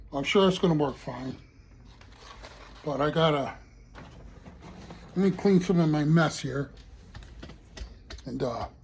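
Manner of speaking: talking around a lollipop; words around candy in mouth; sucking a lollipop. Real, not acted. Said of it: "forgive me for talking with a lollipop in my mouth".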